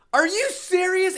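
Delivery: high, disbelieving outburst; mock outrage at the movie; incredulous. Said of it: "I'm like".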